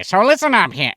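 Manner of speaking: gruff grouchy Muppet voice; Oscar the Grouch. Pretend. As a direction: growl it like a grumpy trash-can Muppet. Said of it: "my Oscar the Grouch impersonation".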